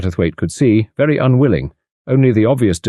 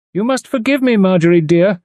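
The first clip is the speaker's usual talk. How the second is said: drawled; 11 semitones higher than usual. A narrator's reading. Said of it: "she drawled".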